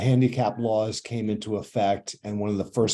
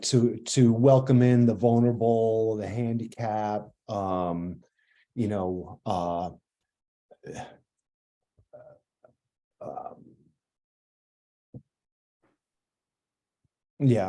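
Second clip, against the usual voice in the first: halting, very slow, flustered, stuttering ramble. Guest in a conversation trying to finish a point, stuttering, rattled. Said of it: "I'm stuttering along here".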